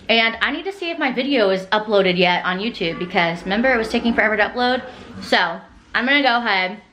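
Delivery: talking with gum in mouth; chewing gum. Real, not acted. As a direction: chew gum while you talk. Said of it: "spit out this gum".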